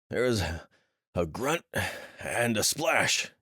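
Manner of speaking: between breaths. Acted. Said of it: "he spoke between breaths".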